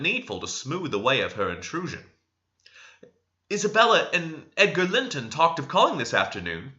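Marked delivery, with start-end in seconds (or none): 3.5-6.7 Cathy. A narrator's reading. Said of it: "she said".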